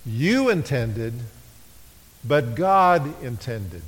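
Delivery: slow, leaning on You and God; contrast stress. Shown as a demonstration. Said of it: "Notice the word intended, used twice".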